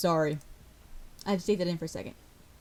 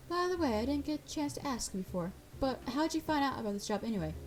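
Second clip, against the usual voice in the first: higher, softening character voice; curious questioner; 5 semitones higher than usual. Acted. Asking the new hire how they found the job, curious. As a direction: start high and ease down, probing gently.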